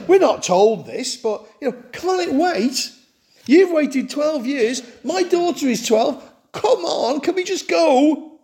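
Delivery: a frustrated father urging Jesus to hurry up, anxious and impatient. Retold or imitated. Preacher voices frustrated Jairus.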